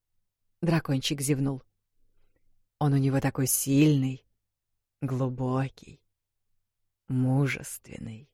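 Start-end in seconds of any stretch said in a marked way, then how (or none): 2.8-8.3 put-on young dragon. A narrator's reading. Dragon praises the voice.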